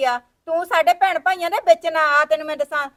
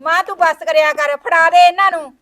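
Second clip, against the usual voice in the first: angry demand; 7 dB louder than usual. Acted. Daughter quarrels with mother.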